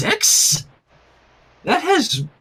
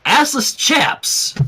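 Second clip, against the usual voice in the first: slow card read; 7 semitones higher, much slower than usual. A narrator's reading.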